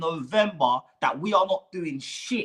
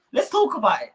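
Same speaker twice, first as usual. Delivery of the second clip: laughing; 4 semitones higher, 3 dB louder, faster than usual. Real, not acted. Laugh while saying.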